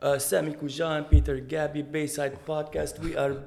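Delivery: upbeat music channel host voice; TV show host. Acted. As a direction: open the show like an MTV presenter. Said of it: "حسك هوست على إم تي في". (مقدم برامج على إم تي في)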